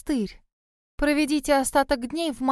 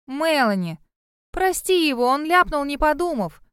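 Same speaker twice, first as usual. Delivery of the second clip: pleading; 5 semitones higher, 4 dB louder than usual. A narrator's reading. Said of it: "попросила я".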